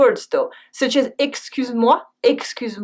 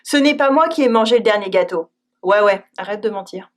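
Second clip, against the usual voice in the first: fast, sarcastic "Ouais, ouais"; mocking disbelief; ironic ouais; 3 semitones lower, faster than usual. Shown as a demonstration. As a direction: brush off the lie with a quick "Ouais, ouais". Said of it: "even sometimes a plain no".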